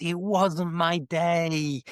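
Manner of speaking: slow, stretched "It wasn't my day", pitched a bit up; drawn-out resignation. Real, not acted. Guest accepting the co-host's verdict on Edinburgh, "It wasn't my day" slowly drawn out. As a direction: draw out every word of "It wasn't my day", lingering on "day".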